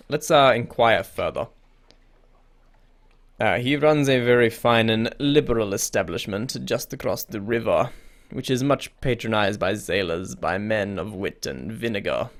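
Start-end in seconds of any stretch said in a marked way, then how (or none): 3.4-12.3 put-on creepy emissary, lightly French-accented. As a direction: give a hint of French to a shady go-between. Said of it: "I don't know why I made him French".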